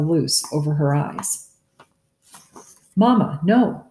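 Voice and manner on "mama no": put-on high, loud child's cry; a sudden pleading shout; cried out. A narrator's reading. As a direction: Jonas cries out to his mother, loud and high. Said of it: "cried Jonas".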